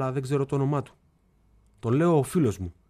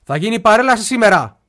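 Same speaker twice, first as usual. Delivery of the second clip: louder and higher, insisting; 7 semitones higher, 9 dB louder than usual. Retold or imitated. Telling his silent father louder about the parade. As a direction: raise the voice to make him hear. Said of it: "Του λέω πιο δυνατά".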